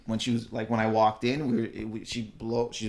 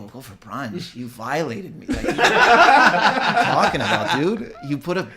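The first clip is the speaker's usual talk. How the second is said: mock outrage; 5 dB louder than usual. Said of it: "in my head, I go".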